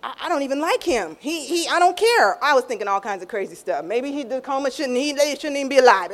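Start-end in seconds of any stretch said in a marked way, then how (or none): 0.0-2.4 retold upset protest. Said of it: "And I was crying 'cause I was like".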